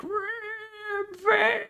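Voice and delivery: mock announcer cry of Rampage; screaming announcer. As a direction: belt it like a crazed announcer. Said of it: "he's like".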